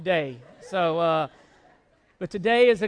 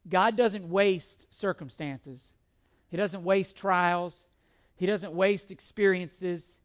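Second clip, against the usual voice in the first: slow, stress on waste each time; measured preacher cadence; slow emphatic preaching; slower than usual. Acted. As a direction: hammer the point line by line.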